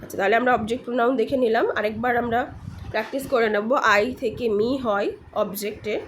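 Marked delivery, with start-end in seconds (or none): 3.7-6.0 slow, evenly spaced word pairs; deliberate pronunciation drill; repeat-after-me drill. Shown as a demonstration. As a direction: pause after each pair for learners. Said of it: "আমার সাথে repeat করার চেষ্টা করবেন".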